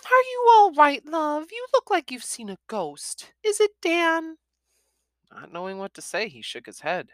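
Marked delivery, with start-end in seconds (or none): 0.1-4.4 high, gentle mother's voice; softened mum. A narrator's reading. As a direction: ease off, motherly concern. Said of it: "Her voice softened".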